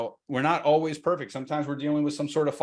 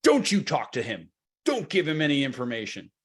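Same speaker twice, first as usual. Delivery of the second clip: hammered first word, falling away, mock scolding; fired up. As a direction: imitate a fired-up spouse giving orders. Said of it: "She's fired up".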